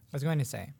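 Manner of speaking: talking through a mouthful; words round a bite of cookie; mouth full. Real, not acted. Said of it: "talk with a mouthful mouth".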